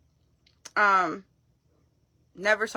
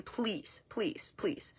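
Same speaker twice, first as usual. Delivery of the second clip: desperate pleading; 2 semitones higher, 11 dB quieter, much slower than usual. Retold or imitated. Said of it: "there was desperation here".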